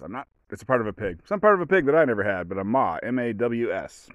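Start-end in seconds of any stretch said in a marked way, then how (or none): 3.0-4.1 spelling out. Shown as a demonstration. Spelling out the word.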